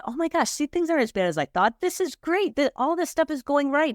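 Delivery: a business owner reliving her excited discovery, high and gushing; retold excitement. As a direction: replay her giddy relief at the numbers. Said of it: "And I got all excited".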